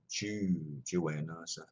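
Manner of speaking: slow, leaning on each "Jew"; emphasis on Jew. Shown as a demonstration. Teacher to students, slowly stressing "Jew" in Juena. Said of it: "Little emphasis on Jew".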